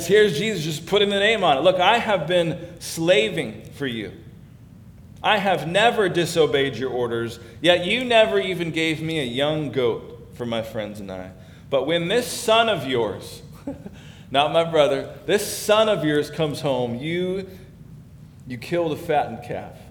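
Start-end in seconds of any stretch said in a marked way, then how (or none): 1.6-13.4 put-on resentful older brother. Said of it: "disrespecting the father". 15.2-19.8 disown the brother with scorn; contemptuous son. Acted. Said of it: "disrespectful word".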